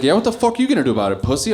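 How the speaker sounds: fast, mocking tough-guy threat; retold tough guy. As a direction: sneer it out fast like a bully.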